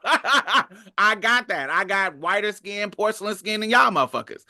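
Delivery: giggling imitation of a cocky claimant; laughing mock boast. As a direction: brag while cracking up. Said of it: "the Japanese motherfucker was like".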